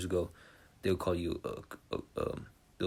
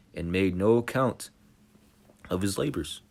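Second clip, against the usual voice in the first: scripture reading; 6 dB louder than usual. Acted. Reads scripture aloud.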